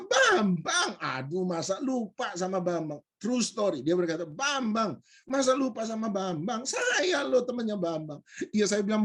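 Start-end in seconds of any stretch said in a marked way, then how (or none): 0.1-3.0 mock exasperation. Stranger to the forgetful speaker, mock exasperated. 4.2-8.2 higher-pitched mock disbelief; incredulous insistence. Stranger saying he is Bambang's friend, incredulous.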